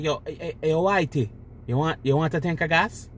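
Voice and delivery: clumsy mock Jamaican accent with a rising question; imitated Jamaican accent. Joking content creator offers gas, badly imitated Jamaican accent. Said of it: "I'm horrible with the fucking accent".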